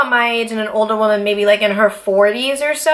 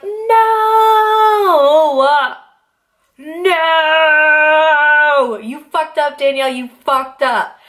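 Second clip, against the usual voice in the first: high, loud, half-sung lament, fading to a slow self-scold; mock wail; 6 semitones higher, 3 dB louder, much slower than usual. Scolding herself after missing her crush, hammed-up wail. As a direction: wail like a melodrama heroine, then scold yourself.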